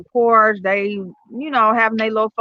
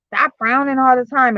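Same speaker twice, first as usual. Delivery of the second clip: slightly higher mock nagging; imitated scolding mother; 4 semitones higher than usual. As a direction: lightly imitate a mother's firm correction. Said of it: "My mama used to tell me".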